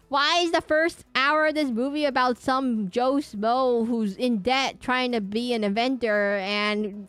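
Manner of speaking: loud, high, slow disbelief; incredulous rant. Retold or imitated. Streamer retelling his reaction to Transformers, loud and incredulous. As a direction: spell out each absurd plot point in disbelief. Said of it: "I was like".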